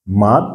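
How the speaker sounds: mad with a short flat A; model word. Shown as a demonstration. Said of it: "nous avons mad".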